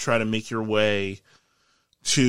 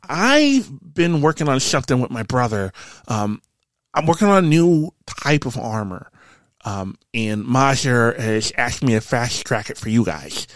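Quentin explaining; 3 semitones higher, 5 dB louder than usual. Acted. Game master plays Quentin.

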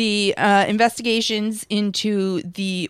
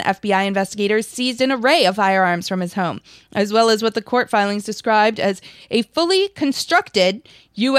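brisk news read, slightly louder; investigative news exposé; 2 semitones higher, 3 dB louder than usual. Acted. Reads out news article.

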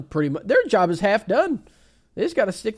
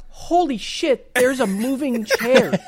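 high, slow amazed gasp; mock awestruck onlooker; amazed bystander; 6 semitones higher, 5 dB louder, slower than usual. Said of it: "they're like".

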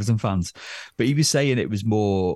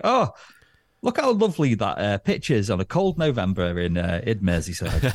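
mock pundit gushing. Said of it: "You can't just be like".

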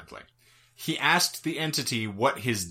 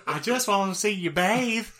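creepy high voice; 8 semitones higher than usual. Retold or imitated. Voicing the witch, higher.

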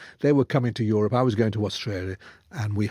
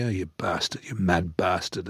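softer, lower, affectionate jab; fond low mock insult; 6 semitones lower, 5 dB quieter than usual. Friend Jeff calling him a mad bastard, softly and fondly. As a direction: say it like an old mate's fond insult. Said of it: "he always called me".

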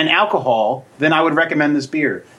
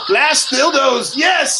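high, slow, hammed-up sexy moan; mock sultry moan; 11 semitones higher, much slower than usual. Teasing cohost about masturbating, hammed-up slow sexy moan. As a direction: drag out the words like a cheesy porn moan. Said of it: "does it sound like this".

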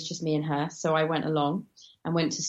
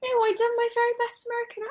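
high-pitched; faster than usual. Real, not acted. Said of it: "you did a fantastic American accent".

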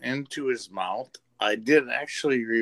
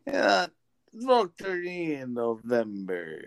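politician voice; 3 semitones lower than usual. Retold or imitated. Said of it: "You sound like a fucking politician".

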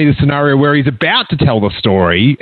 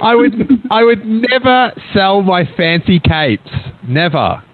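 grand declaration; 4 semitones higher than usual. Pretend. Answering the fake caller grandly.

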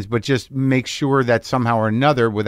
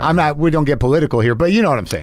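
radio host voice. Pretend. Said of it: "I'm still in character".

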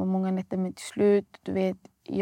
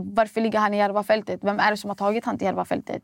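retold anger; 4 dB louder, faster than usual. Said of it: "då jag blir arg istället".

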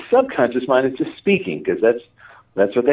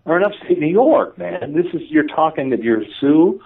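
higher-pitched scoffing inner voice; mocking disbelief; 5 semitones higher than usual. Conscious mind scoffing at his claim to be Sioux, mocking disbelief. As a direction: imitate a skeptical mind talking back. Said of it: "even my brain laughed at that".

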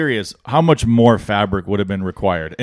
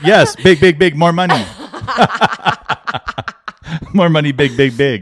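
higher, louder mock Chinese accent, laughing; hammed-up tailor demanding more money in a Chinese accent; 5 semitones higher, 4 dB louder than usual. Host imitating the tailor in a Chinese accent. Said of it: "do it in a Chinese accent".

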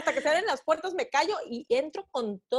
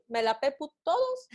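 defiant mantra; 2 semitones higher than usual. Shown as a demonstration. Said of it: "va a pensar mal de ti".

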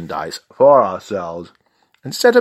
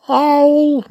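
high, loud hooted owl; high owl call; 7 dB louder than usual. Acted. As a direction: hoot it like an owl. Owl hoot imitated.

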